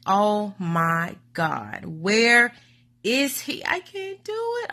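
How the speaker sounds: frantic mother-to-be pleading; panicked pleading. Retold or imitated. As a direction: beg in rising panic. Panicked waiting for the doctor.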